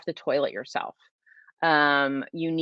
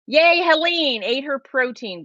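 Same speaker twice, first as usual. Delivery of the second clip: cheerful yay; 7 semitones higher, 4 dB louder, slower than usual. Real, not acted. Cheering a viewer in chat.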